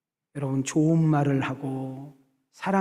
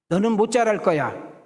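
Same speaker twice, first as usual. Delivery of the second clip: cursing words; 5 semitones higher, 4 dB louder than usual. Retold or imitated. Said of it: "이렇게 저주를 퍼붓고".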